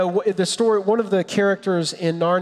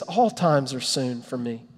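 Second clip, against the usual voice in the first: God answering; 6 semitones lower, 4 dB quieter than usual. Pretend.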